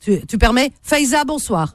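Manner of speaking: hoarse, worn-out voice after talking all night; losing voice. Real, not acted. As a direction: voice nearly gone, hoarse. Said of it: "j'ai plus de voix".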